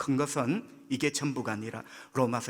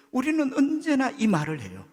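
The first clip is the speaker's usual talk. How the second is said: 1 loud preaching emphasis; 9 semitones higher, 6 dB louder than usual. Real, not acted.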